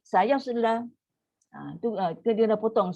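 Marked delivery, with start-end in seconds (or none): 0.1-0.9 sayasla with the s clipped short, no air; cut short. Shown as a demonstration. Teacher demonstrating a wrong short reading. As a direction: stop the breath early on sayasla. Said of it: "Kalau kita baca pendek".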